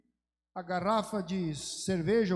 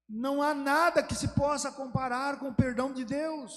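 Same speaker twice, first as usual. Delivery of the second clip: louder and higher, driving the point home; fervent preaching; 5 semitones higher, 4 dB louder than usual. Real, not acted. Preacher exhorting the brothers on God's pardon, loud and fervent. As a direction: preach it to the rafters.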